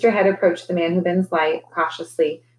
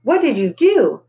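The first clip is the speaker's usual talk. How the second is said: high, loud desperate scream; 6 semitones higher, 4 dB louder than usual. A narrator's reading. Victoria screaming in terror at the magician. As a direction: hurl the question at him.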